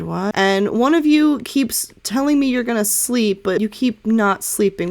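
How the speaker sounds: Alice teasing the brooding group, lightly; lightly voiced Alice. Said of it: "and she's like".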